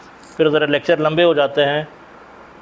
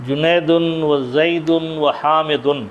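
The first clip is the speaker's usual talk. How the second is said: slow, word by word, each ending of جنیدن و زیدن و حامدن spelled out; slow dictation; slower than usual. Shown as a demonstration. Teacher dictating Arabic names to students, slowly. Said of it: "teacher spells out the dual/plural endings".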